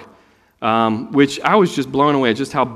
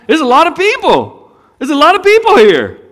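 high and loud, hammering people; emphatic exclaim; 13 semitones higher, 7 dB louder than usual. Real, not acted. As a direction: marvel at the crowd. Preacher stressing crowd size.

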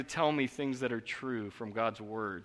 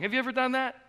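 normal talking voice

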